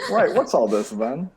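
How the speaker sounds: laughing British bobby impression; British accent. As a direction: say it like a British copper. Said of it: "That is super British".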